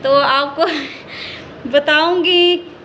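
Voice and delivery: real giggle breaking through the words; laughing. Real, not acted. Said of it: "मुझे हंसी भी आ रही है". (हँसी रोकते हुए धीरे से बोलना)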